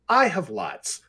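high, cheerful reply; cheerily dismissing the objection. A narrator's reading. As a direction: chirp it brightly and breezily. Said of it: "Gwen said cheerfully".

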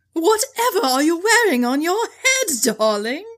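a hint of mock-posh British; lightly hammed-up tea-party voice; talking funny posh. Kate teasing about a hat, lightly mock-posh. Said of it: "Talking stupid".

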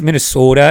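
"Minnesota" with an imitated regional long O; imitated Minnesota vowel. Host teasing co-host about his O's, imitated "Minnesota" with a long O. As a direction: lean on the O in "Minnesota". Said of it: "you say those things".

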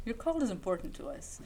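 recorded hold message voice; phone menu voice. Pretend. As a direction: read it like an automated line.

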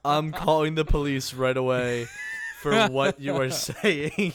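mock outrage.

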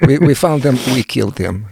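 jokey mock Russian accent; bad Russian accent. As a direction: put on a rough comic Russian accent. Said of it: "My worst Russian accent ever".

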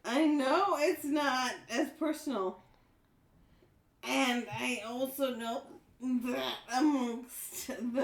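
giggling, barely holding it together; laughing. Real, not acted. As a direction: read while stifling a laugh. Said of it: "Are you okay?".

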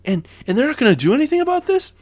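mocking hometown announcers freaking out over a missed call; mock outraged announcers. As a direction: squeal it out like homer announcers losing it. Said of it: "the two Philadelphia announcers just are like".

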